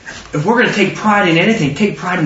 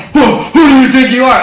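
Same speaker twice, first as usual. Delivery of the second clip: mock indignation; 5 semitones higher, 5 dB louder than usual. Acts retort to offended person.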